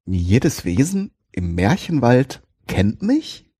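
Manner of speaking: langsam, verwirrt nachfragend; ungläubig und verwirrt wiederholen. Acted. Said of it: "wiederholte ich zunehmend verwirrter". (zunehmend verwirrt)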